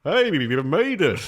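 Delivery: mock musician. Voicing a musician underwater.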